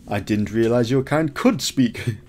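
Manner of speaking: lightly put-on accent from a TV character; Jon Snow accent. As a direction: play it with a mild imitation accent. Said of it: "That's Jon Snow, though".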